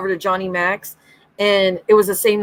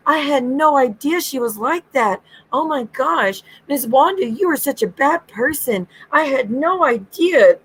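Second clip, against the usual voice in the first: high, put-on innocent Jen; high fake innocent gasping voice; mock Jen; 5 semitones higher than usual. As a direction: ham up Jen's fake innocence. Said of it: "And Jen's like".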